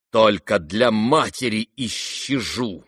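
slow, solemn tragic line; restrained theatrical tragedy; tragic declaration. Acted. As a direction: say it slowly as a martyr would. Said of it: "трагически произнёс Ганя".

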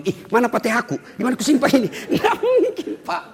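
hammed-up searching for something lost; mock panic. Preacher pretends he lost his Fatihah, mock panic.

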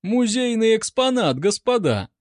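high, loud mock admiration; delighted. A narrator's reading. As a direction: announce a marvellous find. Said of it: "восхитился корнет".

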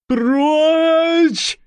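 high, rasped tramp voice; hoarse wheeze. Acted. Stranger lifting his head at Nicolas, rasped. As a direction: rasp it out like a wild vagrant. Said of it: "прохрипел незнакомец".

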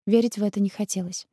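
plain reading voice

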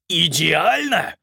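slow, high, loud outraged roar. A narrator's reading. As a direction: bellow the word in disbelief. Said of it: "взревел Малкольм". (взбешённый рёв)

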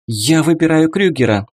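quick, rattled-off decision; rapid patter. A narrator's reading. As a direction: rattle it off in one breath. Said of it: "скороговоркой подытожила Эмма".

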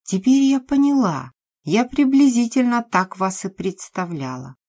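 nailing them with what she's figured out; heated realization. Acted.

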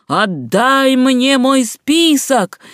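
slow, high, furious devil's shriek; seething shrieking spirit. Acted. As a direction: drag it out like a raging demon. Черт гонится за стряпчим. (злобный визг дьявола)

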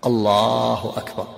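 "الله أكبر" drawn out slowly, then a stop; slow, separated takbir. Shown as a demonstration. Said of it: "ثم يسكت قليلا".

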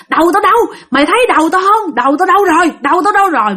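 retold wailing. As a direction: act out frantic searching, lightly. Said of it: "rồi gào lên".

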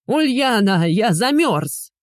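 high, drawn-out whine; whining. A narrator's reading. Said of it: "продолжал ныть Никитка". (ноет бывший муж)

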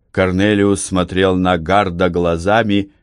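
usual speaking voice

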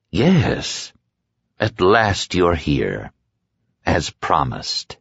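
a lightly voiced predator, pleased with himself; the dark man greets her, slow and knowing; dark man's voice. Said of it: "the dark man speaking".

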